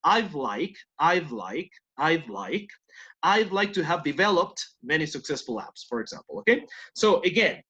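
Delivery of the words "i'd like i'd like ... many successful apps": "I'd" with a clear D before like; D sounded in I'd. Shown as a demonstration. Teacher drills I'd like with the D sounded. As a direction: make the D in "I'd" heard. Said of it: "hay que hacer sonar esa D".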